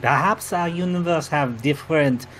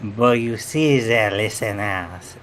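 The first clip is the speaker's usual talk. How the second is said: mock-dramatic reveal in a hammed-up French accent; a sly French-accented confession; host reveals he is from another universe, in mock French; fake French accent. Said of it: "we all have this outrageous accent".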